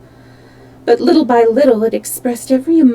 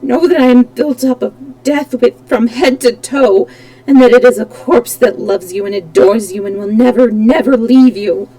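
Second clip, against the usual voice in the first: menacing; 5 dB louder than usual. Acted. Phantom declares deathly love.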